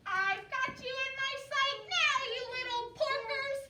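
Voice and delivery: high, loud gloating witch; cackling witch. Acted. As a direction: gloat down at the pigs. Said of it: "she cackled as she circled".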